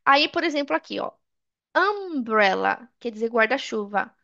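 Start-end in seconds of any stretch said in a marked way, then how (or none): 1.8-2.9 "Umbrella" slowly, opening on "uh". Shown as a demonstration. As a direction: stretch "Umbrella" from an "uh" vowel. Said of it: "o som da letra U".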